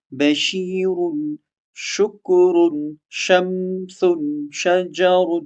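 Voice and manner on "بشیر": بشیر said very slowly, stretching the ش; a slow, careful بشیر; drawn-out example word. Shown as a demonstration. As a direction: model بشیر slowly for the class. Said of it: "مثال سے آپ سمجھیے".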